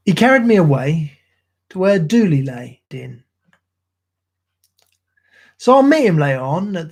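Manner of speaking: rhythmic ballad recital in a Cockney soldier's voice; poem recitation. Acted. Streamer reciting Gunga Din to his stream, in a rhythmic Cockney recital. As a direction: recite like an old London soldier.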